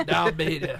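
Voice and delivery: diabetes echoed as "dia-BEE-tus"; Wilford Brimley. Retold or imitated. Host echoes co-host's celebrity joke, light impression. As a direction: lightly mimic the "-beetus" ending of diabetes. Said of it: "I wanted him to say diabetes".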